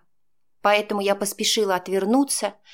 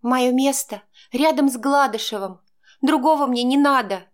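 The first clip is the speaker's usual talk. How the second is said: firm, cutting, a touch higher; cut off curtly; 4 semitones higher, 4 dB louder than usual. Acted. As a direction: shut the talk down flatly. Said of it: "отрезала я". (резко, отрезая)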